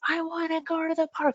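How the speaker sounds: light childlike high voice, mock insistent; imitating a child. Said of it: "starts yelling that over and over".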